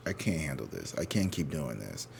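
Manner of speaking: low, softened voice of someone at their limit; worn-out. Retold or imitated. Voicing the listener's breaking point, quietly worn-out. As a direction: imitate someone quietly giving up.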